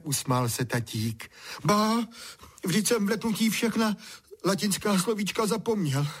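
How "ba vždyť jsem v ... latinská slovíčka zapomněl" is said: put-on high boyish voice. A narrator's reading. Boy still shaken.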